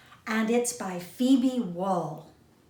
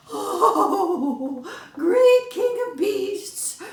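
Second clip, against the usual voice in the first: high pleading mouse voice; begging little mouse; 11 semitones higher, 7 dB louder, much slower than usual. A narrator's reading. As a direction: beg up high like a tiny mouse. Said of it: "begged the trembling little mouse".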